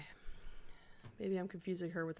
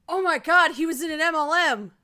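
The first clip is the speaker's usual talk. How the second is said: loud gasping shock; gasp, then shout it out; 8 semitones higher, 13 dB louder than usual. Real, not acted. Shocked discovery while reading.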